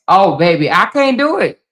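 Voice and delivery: high, loud exclamation of disbelief; bursting out in horror at the idea. Real, not acted. Reacting to a sleep mask.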